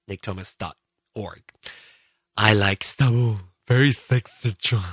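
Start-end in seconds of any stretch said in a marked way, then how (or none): 2.4-4.8 a hint of a flirty fan; listener voice. Podcaster reading a fan's flirty comment, light put-on voice. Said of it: "That's my listener's voice".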